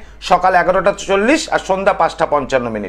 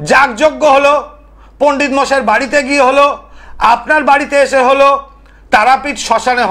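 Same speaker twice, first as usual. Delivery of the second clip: raised, punched list, pausing after each item; emphatic oratory; 6 semitones higher, 3 dB louder than usual. Real, not acted. Tantric listing failed remedies to viewers, emphatic oratory. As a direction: count them off insistently in a high voice.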